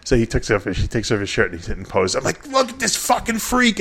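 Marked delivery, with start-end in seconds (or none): 2.5-3.8 hyped shout. Retold or imitated. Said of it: "I'm going crazy".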